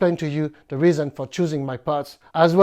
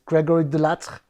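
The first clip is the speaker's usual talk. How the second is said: name said the English way; English accent. Shown as a demonstration. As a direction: give the name an English pronunciation. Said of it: "I don't know why I take the English accent".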